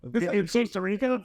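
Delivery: high, slow incredulous put-on voice; mock disbelief. Retelling the bartender's dirty beer, high mock incredulity. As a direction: play up the shock, way up high. Retold shock at the bar.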